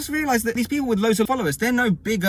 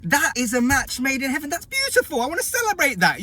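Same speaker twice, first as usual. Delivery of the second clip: sarcastic delight; 5 semitones higher than usual. Real, not acted. Sarcastic celebration of the couple.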